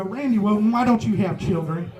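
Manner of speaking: lightly voiced excited Southern aunt; a hint of a nosy Southern aunt prying. Comic retelling his aunts asking about kids, light mock Southern aunt. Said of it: "it's excited Southern women".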